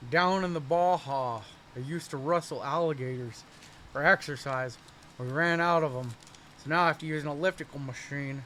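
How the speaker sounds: a half-hearted stab at a wrestler-governor voice; a faint hint of Jesse Ventura; Jesse Ventura impression. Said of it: "I don't have a Jesse Ventura impression".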